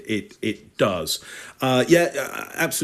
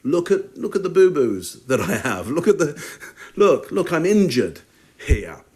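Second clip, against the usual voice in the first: lightly voiced child showing off injuries; imitated child; 4 semitones higher than usual. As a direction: plead for attention like a child, lightly. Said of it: "It's like a child going".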